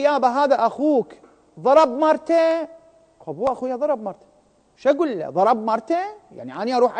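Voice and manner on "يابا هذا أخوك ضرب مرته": imitating the judge. Judge questions the witness.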